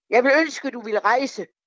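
put-on high shout. Retelling what a bishop shouted at the wall, back turned, re-enacting the shout. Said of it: "Og så råbte han ind i vægen".

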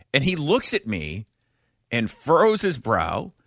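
ordinary talk

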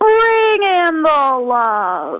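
put-on very high, swooping, big funny kid voice. Retelling what a four-year-old says when you get close for a hug, imitating a kid's big voice. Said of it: "he says in this big voice".

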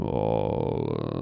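creaky, creepy whispered voice. Saying a name to tease the other speaker: voice like a coffin creaking open. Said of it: "it sounds like a coffin creaking open".

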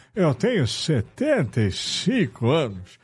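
forced, strained put-on old man voice. Mimicking an old man stating his age, really forcing it: forced old man voice. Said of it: "Você dá aquela forçada".

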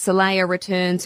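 plain

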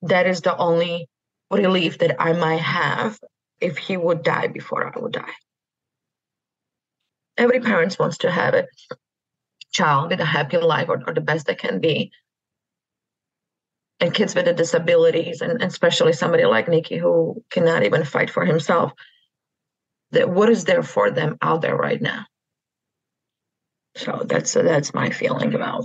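speaking through tears. Answering an interviewer's question about kids with disabilities, crying while talking. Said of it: "I'm crying all morning".

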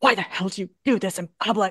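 chastising, scolding voice. Retelling a husband who scolds his wife in front of everybody: imitating a husband scolding. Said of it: "he chastises her in front of everybody".

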